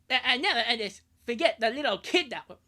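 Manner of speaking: indignant cartoon Canadian, hammed up; South Park Canadian. Reading a comic's ranger banning a kid from the country, South Park Canadian voice. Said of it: "South Park voice is insane".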